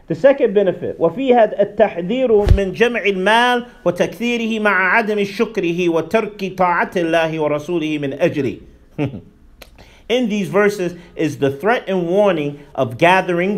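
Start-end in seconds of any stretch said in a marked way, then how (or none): 1.0-8.6 rapid, even read of the Arabic text; fast Arabic reading. Acted. قراءة سريعة للنص. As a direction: read the passage straight through, quickly.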